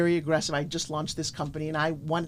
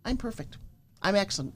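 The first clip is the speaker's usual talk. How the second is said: affirmation; 3 dB quieter than usual. Shown as a demonstration. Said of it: "Look in that mirror and go".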